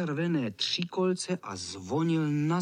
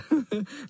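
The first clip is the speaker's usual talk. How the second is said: krátké vysoké chechtání; vysmát se; škodolibý smích; 10 semitones higher than usual. Acted. Kocour znovu ujede. (kocour se směje klukům)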